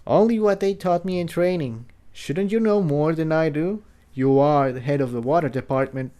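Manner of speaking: lightly voiced young pony, curious and gentle; Tiptoe.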